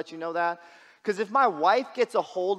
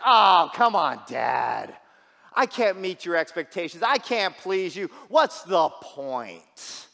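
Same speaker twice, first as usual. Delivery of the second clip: loud, drawn-out mock wail of despair; fake crying whine; 6 dB louder, slower than usual. Son protesting to his dad over his writing, hammed-up tearful whine. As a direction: ham up a kid's crocodile-tear protest. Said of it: "crocodile tears coming down".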